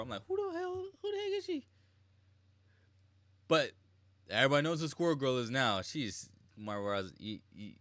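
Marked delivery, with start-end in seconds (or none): 0.3-1.6 loud, high-pitched baffled outburst; mock-bewildered cry, pitched way up; baffled disbelief. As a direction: blurt it in a high, incredulous squeal. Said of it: "I'm like Ultron when I first saw".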